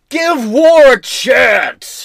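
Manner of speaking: slow, drawn-out rally-cry shout; mock slogan shout. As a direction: bellow it like a protest chant. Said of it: "Shout out if you know the reference".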